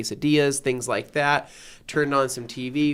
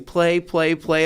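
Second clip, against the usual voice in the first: put-on kid's chant, only a little raised; mimicking a kid yelling; 4 semitones higher, slower than usual. Daughter begging to play, mild mock yell. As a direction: lightly echo her calls. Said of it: "my daughter starts yelling".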